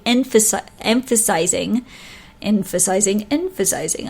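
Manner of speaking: stumbling over "emphasi-, emphasizing", retrying the word; tongue-tied stumble. Real, not acted. Makeup vlogger fumbling a word on camera, tongue-tied. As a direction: trip on "emphasi-", then repeat "emphasizing" until it comes out. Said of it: "I can word today".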